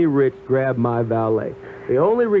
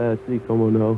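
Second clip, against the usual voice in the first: Spanish; 3 semitones lower than usual. Pretend. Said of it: "speak English, por favor".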